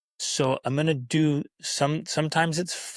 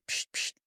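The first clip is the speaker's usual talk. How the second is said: squirt bottle noise; 9 dB quieter than usual. Retold or imitated. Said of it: "squirt bottle and, like".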